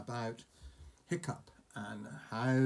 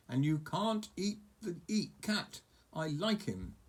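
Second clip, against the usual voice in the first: put-on higher, insistent boy; pleading boy; 6 semitones higher than usual. Hiccup telling Toothless not to eat the cat.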